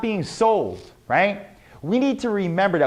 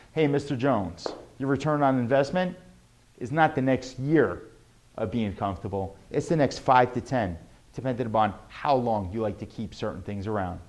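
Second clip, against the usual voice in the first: calm sales pitch; 5 semitones lower, 5 dB quieter than usual. Shown as a demonstration. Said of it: "for instance".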